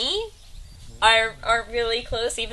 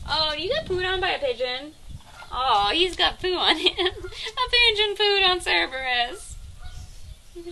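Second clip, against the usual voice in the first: laughing coo; 10 semitones higher than usual. Real, not acted. Pigeon pooed on the goat.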